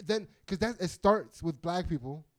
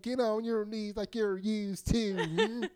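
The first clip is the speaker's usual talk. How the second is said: slow mocking line through giggles; laughing taunt; 4 semitones higher, slower than usual. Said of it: "someone's like".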